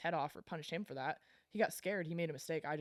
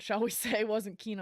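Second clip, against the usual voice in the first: laughing aside; 6 semitones higher, 8 dB louder than usual. Real, not acted. Wry aside about the doctor.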